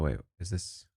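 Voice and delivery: ordinary talk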